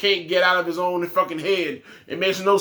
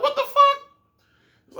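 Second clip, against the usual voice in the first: way higher and slow, stretched in disbelief; incredulous outburst; much slower than usual. Real, not acted. Fan ranting about the booking, stretched high in disbelief.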